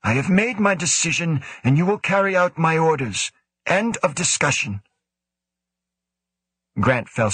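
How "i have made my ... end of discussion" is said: higher, measured official voice; lightly voiced cool commanding official; stern director. A narrator's reading. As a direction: speak as the stern station director. Woe gives orders.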